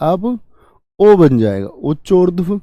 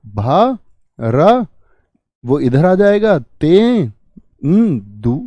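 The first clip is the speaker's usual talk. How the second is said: syllable by syllable; much slower than usual. Shown as a demonstration. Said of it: "क्या बन जाएगा?".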